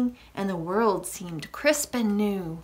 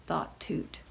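soft ending; 5 semitones lower, 10 dB quieter than usual. A narrator's reading. Narration closing the story softly.

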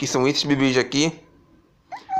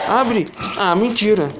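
being chased; 5 semitones higher than usual. Real, not acted. Cornered, frantic.

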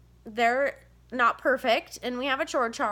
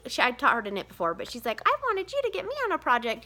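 daughter whining; 5 semitones higher, faster than usual. Retold or imitated. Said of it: "comes in, is like".

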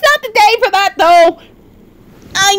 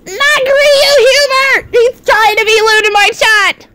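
whiny protest; 5 semitones higher than usual. Real, not acted. Streamer complaining about Huber in chat, whiny protest. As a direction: wail in protest, pitched up.

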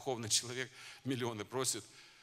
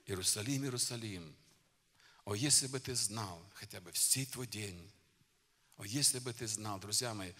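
lament; 3 semitones lower, 4 dB quieter than usual. Acted. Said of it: "Он заплакал о нём".

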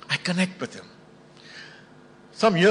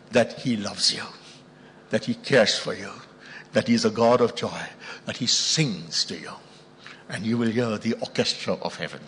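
tender preaching; 5 semitones lower than usual. Real, not acted. Preacher assuring the faithful that God loves them, tender and low. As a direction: speak it low, as a gentle promise.

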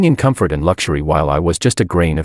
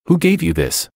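sharply higher, startled demand; startled question; 10 semitones higher than usual. A narrator's reading. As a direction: caught off guard, ask it fast and high. Angelica shocked by the photo.

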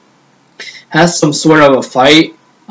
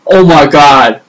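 louder mock-shocked exclamation; retold shock; 4 dB louder, slower than usual. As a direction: imitate a shocked reaction. Mother's shock at seeing painted nails.

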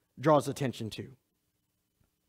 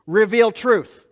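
"reveal truth" drawn out slowly and louder; emphatic slow phrase; 6 dB louder, much slower than usual. Acted. Preacher driving home the Spirit's role, slow emphatic stress. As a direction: stretch "reveal truth" out, weighing each word.

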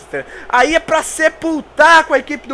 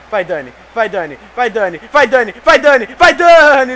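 building cheer; 4 dB louder than usual. Real, not acted. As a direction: chant it louder each time. Urging a free kick, growing louder.

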